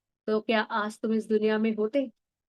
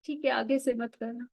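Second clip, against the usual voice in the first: mother's gentle comfort; 5 dB quieter than usual. Retold or imitated. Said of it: "कहा".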